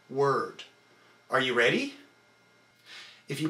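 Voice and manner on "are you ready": Are you ready with the hit on re; stress on re of ready. Shown as a demonstration. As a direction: contract the core on re. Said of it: "only on re".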